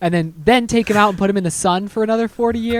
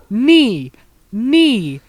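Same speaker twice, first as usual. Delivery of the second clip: calling out steps, higher and louder; mock aerobics coach counting moves; mock Zumba instructor; 6 semitones higher, 4 dB louder, much slower than usual.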